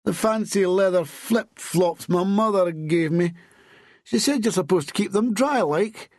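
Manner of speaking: high-pitched, woeful complaint; moaning. A narrator's reading. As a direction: lament it high, like a lad in trouble with his mother. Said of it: "he moaned".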